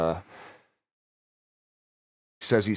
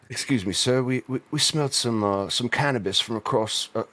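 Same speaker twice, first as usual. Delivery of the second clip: British cop; 3 semitones higher than usual. Retold or imitated. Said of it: "that's how I imagine they would say".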